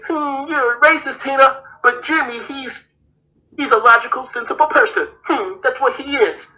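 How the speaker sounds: slightly high, lightly acted accusers; mock judgement. Imitating people who blame Tina and excuse Jimmy, mock judgement. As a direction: lightly imitate people pondering a verdict, pitch a bit up. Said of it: "look at Tina and say".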